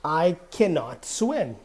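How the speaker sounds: full, uncontracted "cannot" said with emphasis; emphatic CANNOT. Shown as a demonstration. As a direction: lean on "cannot" to intensify the negative. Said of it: "If we wanna intensify".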